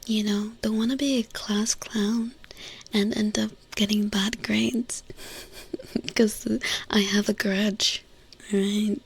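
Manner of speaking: breathy ASMR murmur; ASMR whisper. Acted. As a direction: whisper it close to the mic.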